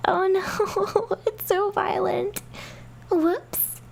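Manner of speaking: high, gleeful mock pity; mocking girl. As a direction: fake sympathy with a giggle. Fleta mocks the fall.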